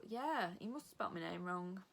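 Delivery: ordinary delivery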